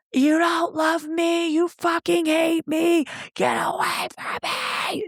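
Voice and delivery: high, slow wailing tantrum; mock sobbing, ending in a hissed breath; imitated sobbing rage. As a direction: cry it out like a grown man's meltdown. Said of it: "And he's like".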